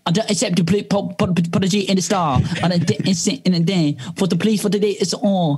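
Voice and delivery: British rapper style. Pretend. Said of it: "say that you don't accept the police apology in that style".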